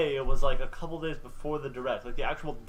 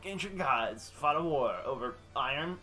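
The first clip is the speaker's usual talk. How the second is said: trailer narrator parody; slower than usual. Retold or imitated. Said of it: "It was like".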